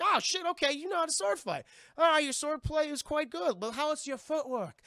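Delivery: high, loud theatrical taunting; mock impressed pirate. Pirate sizes up a young swordsman, theatrical mock praise. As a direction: toy grandly with your opponent.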